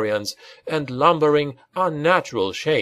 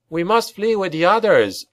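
raised, higher plea to flee; urgent cry; 7 semitones higher than usual. Acted. Rat Boy urging the Baron to flee, raised urgent cry. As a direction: call out in alarm to the Baron. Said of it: "he cried".

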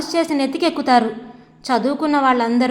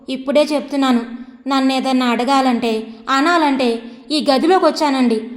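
angry outburst. Acted. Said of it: "కోపంగా ఎగిరింది".

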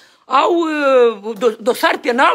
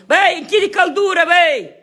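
raised, insistent call; 3 semitones higher than usual. Real, not acted. Man telling someone to shut the heat, calling out. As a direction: call an order across the house. Calling out order across room.

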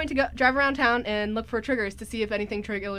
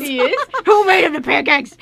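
surprised question; 5 semitones higher, 9 dB louder than usual. Retold or imitated. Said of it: "she's like".

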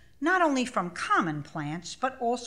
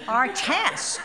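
laughing; 6 semitones higher, 5 dB louder than usual. Real, not acted. Amused at the task's smallness.

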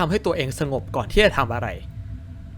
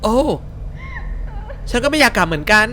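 put-on high-pitched polite young woman; polite lady character; 9 semitones higher than usual. Streamer voicing a woman asking the crying girl, high and girly. Voices the two girls talking.

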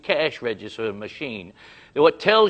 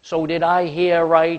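higher and louder, incredulous; worked-up rant; 6 semitones higher, 6 dB louder than usual. Retold or imitated. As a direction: launch into the rant in disbelief. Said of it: "starts to unload".

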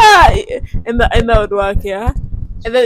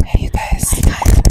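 breathy close whisper; ASMR whisper. Pretend. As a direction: whisper right into the mic. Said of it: "A S M R".

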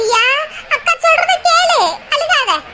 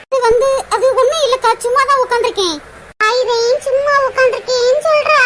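elder sister; 3 semitones higher than usual. Acted. The elder sister finds Priya weeping and consoles her, pitying. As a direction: pity her little sister, then explain firmly.

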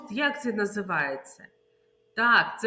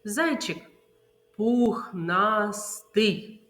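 "пухнастий" very slow and stretched; quick noun, long lingering adjective; slow sign word; much slower than usual. Shown as a demonstration. Teacher modelling the rain word game. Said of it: "ознаки повільно".

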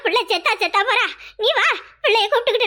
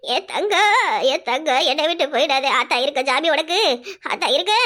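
low wailing; 5 semitones lower than usual. Acted. Mother wails for dying daughter.

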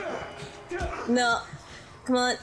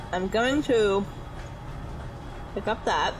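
chewing while talking; mouth full. Real, not acted. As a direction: talk through a mouthful of cookie. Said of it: "sounds like I'm chewing".

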